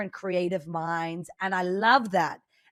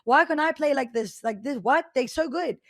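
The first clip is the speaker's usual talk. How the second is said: mock frustrated viewer; 7 semitones higher, 6 dB louder than usual. Viewer frustrated at skilled streamers.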